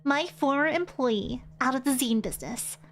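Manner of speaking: sweetly menacing boss voice; yandere voice. Acted. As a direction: purr it like a sweet, dangerous boss. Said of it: "I'm giving her a yandere sort of voice".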